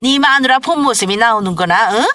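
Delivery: angry, forceful warning; threatening mother-in-law. Acted. Mother-in-law warns daughter-in-law after the fight, threatening. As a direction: threaten her with what is coming.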